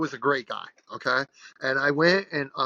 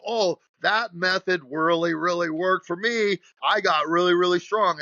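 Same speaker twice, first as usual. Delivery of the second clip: lightly voiced gym bro boasting, a little higher; a hint of a smug lifter gushing about his method; mock bragging lifter; 5 semitones higher, 4 dB louder than usual. Lifter bragging to others about his method, mildly mocking.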